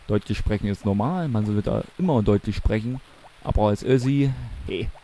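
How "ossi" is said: Össi with a Bavarian rounded ö; Össi Bavarian style. Shown as a demonstration. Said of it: "will ich dieses Bayerische reinbringen".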